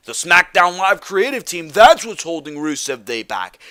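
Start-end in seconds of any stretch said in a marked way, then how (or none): 1.7-3.6 firm falling statement, "That's" stressed; emphatic answer. Real, not acted. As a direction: land the answer firmly, falling to "back". Answers his own rhetorical question.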